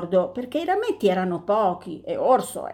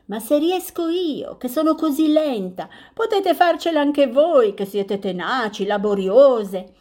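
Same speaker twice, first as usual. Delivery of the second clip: lightly voiced tortoise, higher and cheerful; 5 semitones higher, 3 dB louder than usual. Tortoise encourages bees.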